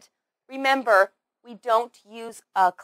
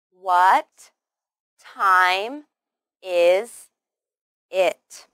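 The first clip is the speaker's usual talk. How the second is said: each word said slowly, loudly and separately; WHAT, TIME, IS, IT with a clear pause after each; 3 semitones lower, 6 dB louder, much slower than usual. Shown as a demonstration. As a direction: spell the question out one word at a time. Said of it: "let's try the whole sentence".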